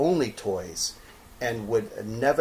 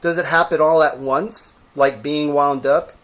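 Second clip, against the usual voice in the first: higher, louder eager question; rabbit's eager voice; 4 semitones higher, 7 dB louder than usual. Acted. Rabbit pressing the old horse, higher and eager. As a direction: press the question like an excited small toy.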